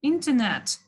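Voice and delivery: Internet with the r dropped, in-te-net; silent r. Shown as a demonstration. Teacher showing an option, Internet pronounced without the r. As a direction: leave out the r in Internet. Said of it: "рыны окуй деле койсоңуз болот".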